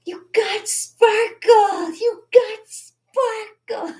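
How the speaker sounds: very high, slow, delighted mom voice; imitating mom. Daughter imitating her proud mom, squealing high and slow. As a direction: squeal it like a thrilled mother. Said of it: "She'd be like".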